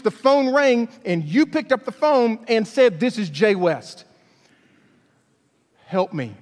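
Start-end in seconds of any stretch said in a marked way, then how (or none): 3.0-6.3 laughing mock quote. Mocking her answer.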